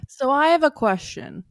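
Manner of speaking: breathless after rushing back; talking while winded; out of breath. Real, not acted. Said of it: "let me just catch my breath".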